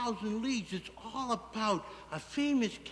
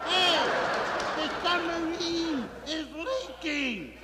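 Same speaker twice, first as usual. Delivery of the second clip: hollering; 6 semitones higher, slower than usual. Retold or imitated. Captain Nemo alerts his wife by intercom, hollering. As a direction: call out the alarm over an intercom. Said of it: "hollers through the intercom".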